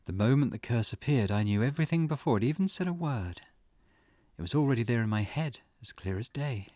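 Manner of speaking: lightly acted woman, measured and certain; client insisting. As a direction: insist with deliberate pauses, lightly in character. Voices client insisting curse is real.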